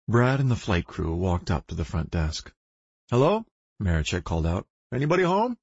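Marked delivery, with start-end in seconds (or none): 3.1-3.4 calling out. Acted. Calling out in empty lobby. 4.9-5.6 calling out. Acted. Calling out in empty lobby.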